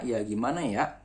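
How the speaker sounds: Jakarta style, the final ya cut short with a glottal stop; Jakarta ending. Shown as a demonstration. Teacher contrasting Jakarta speech with Sundanese. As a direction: ya gimana ya, clipped off at the end. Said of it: "Tapi kalau orang Jakarta".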